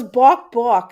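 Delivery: loud mock chicken clucks; playful chicken noise, punched out; chicken clucking. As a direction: imitate a hen, "bawk bawk". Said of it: "like how a chicken talks".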